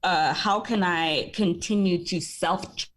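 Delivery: words slurred around a retainer; talking with a retainer in; wearing a retainer. Real, not acted. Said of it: "Sorry, I have a retainer in".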